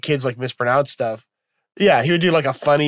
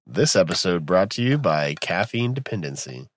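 lower-pitched parody ad read; mock sponsor announcer; 7 semitones lower, 3 dB quieter than usual. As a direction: announce a joke sponsor in a low voice. Joke sponsor announcement on podcast.

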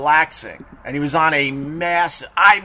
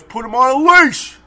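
much higher, louder imitated barked command; mock angry order; 10 semitones higher, 7 dB louder than usual. Angry dog owner ordering teller, hammed-up loud demand. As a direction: snap it like a furious stranger. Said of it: "the guy goes".

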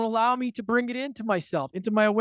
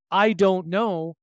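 slow emphatic; much slower than usual. Shown as a demonstration. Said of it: "that I don't want to say".

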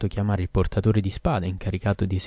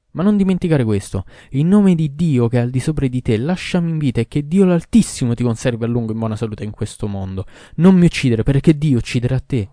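much louder, higher begging warning; desperate loud plea; 4 semitones higher, 7 dB louder than usual. A narrator's reading. Doctor begging the king for his life, desperate loud plea. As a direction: beg for your life at full voice.

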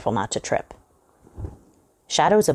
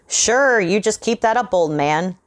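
higher, louder bravado; defiant call; 6 semitones higher, 3 dB louder than usual. A narrator's reading. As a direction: shout a challenge he doesn't feel. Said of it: "Johnson called out again".

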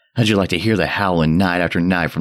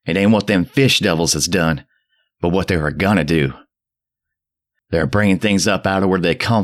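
put-on mad frenzied old man; 5 semitones higher than usual. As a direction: rave at the boy in frenzy. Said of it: "the mad frenzy of his voice".

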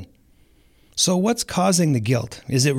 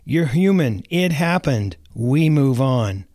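Elsa impression; slower than usual. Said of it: "as Elsa from Frozen would say".

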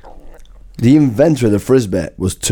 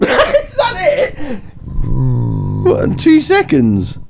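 laughing; 8 semitones higher, slower than usual. Real, not acted. Mocking friend's two-second hum.

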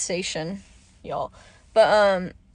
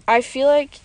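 raspy, hoarse throat; talking through a hoarse, dry throat; 4 dB louder than usual. Real, not acted. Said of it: "I sound like a smoker".

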